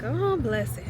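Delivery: lightly imitated pitying coo; a touch of tender pity on "oh"; sincere sympathy. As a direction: say it as if you truly mean the sympathy. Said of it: "type of way".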